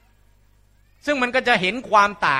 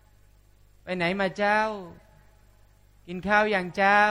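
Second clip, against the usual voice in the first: slow, soft Northern Thai drawl; ช้าๆ เย็นๆ สำเนียงเหนือ; Northern Thai accent; 5 dB quieter, much slower than usual. Retold or imitated. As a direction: speak gently like a Northern Thai local. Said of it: "คนเหนือก็พูดเย็นๆ ช้าๆ".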